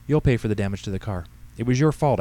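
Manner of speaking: a hint of bossy old woman laying blame; scolding old lady. Voices Henrietta scolding the pastor.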